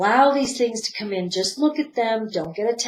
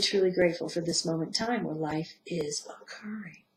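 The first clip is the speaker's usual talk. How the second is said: gentle meditation voice that fades to a whisper; guided meditation. Acted. Teacher guiding listeners through self-forgiveness, meditative. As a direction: guide them inward, settling into stillness.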